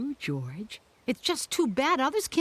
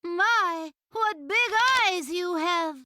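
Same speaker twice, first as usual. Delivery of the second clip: put-on high-pitched storybook girl; high, wide-eyed wonder; Little Red Riding Hood; 7 semitones higher, slower than usual. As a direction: marvel in a raised little-girl voice. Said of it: "And Red Riding Hood said".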